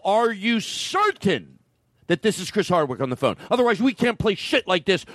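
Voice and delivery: flustered host demanding answers; agitated host. Acted. Host panics at prank call.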